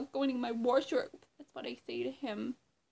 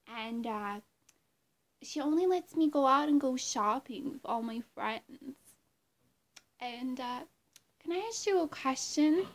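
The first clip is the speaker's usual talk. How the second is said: A pop singer. Acted. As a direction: pop star impression with halting pauses. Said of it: "do this impression".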